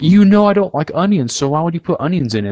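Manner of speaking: imitating himself complaining to mom; exasperated retort. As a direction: argue back at mom. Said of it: "I'm like".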